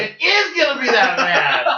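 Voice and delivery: laughing through the words. Real, not acted. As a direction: chuckle while insisting, slowly. Laughing dread about the chip.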